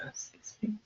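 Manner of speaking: barely any voice left; lost voice. Real, not acted. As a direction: voice gone to a whisper. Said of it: "I'm losing my voice here".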